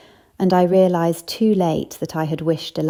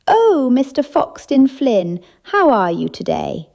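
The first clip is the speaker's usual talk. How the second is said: flirty greeting; 6 semitones higher, 4 dB louder than usual. Acted. Ladies greet Ruprecht flirtatiously.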